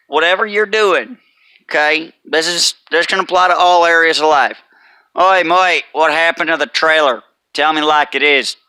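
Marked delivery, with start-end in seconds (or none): 5.2-8.6 lightly voiced boss with an "Oi, mate"; a touch of a blunt boss calling out. Boss asks driver what happened to trailer, lightly voiced. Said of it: "two different, uh, little, uh, voice patterns".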